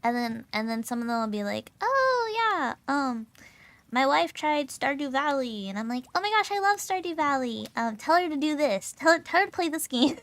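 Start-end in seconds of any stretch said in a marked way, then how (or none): 1.8-10.2 high, loud, gushing quote; excitedly imitating someone thrilled; enthusiastic retold reaction. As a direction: gush like an eager fan. Eager coworker's reaction, retold.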